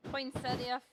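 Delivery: "poinsettia" with a full -ee-uh ending; pronunciation variant. Shown as a demonstration. Painting teacher offering flower name options, pronouncing "poinsettia" with ee-uh. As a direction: end "poinsettia" in a clear ee-uh. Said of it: "however you say it".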